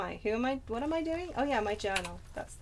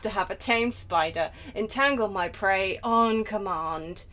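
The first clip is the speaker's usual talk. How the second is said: lightly voiced brooding vampire; Trevor. Player reading journal as Trevor, lightly voiced impression. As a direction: savour the reading with a hint of drama. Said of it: "by that, that voice".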